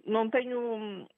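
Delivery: ordinary talk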